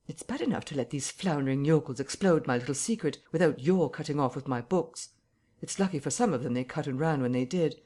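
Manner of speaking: rising frustration, almost shouting; exasperated rant. Acted. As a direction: invisible man venting over his exposed secret. Invisible man rants, rising desperation.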